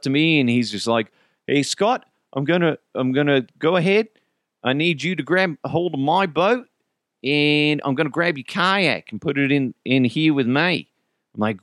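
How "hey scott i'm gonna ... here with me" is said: lightly voiced Australian boatman; slightly raised voice, imitating a local taking charge; kayak rental guy. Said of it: "the guy that sold us the kayaks".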